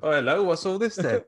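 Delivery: hammed-up British copper; London policeman. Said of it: "someone else goes".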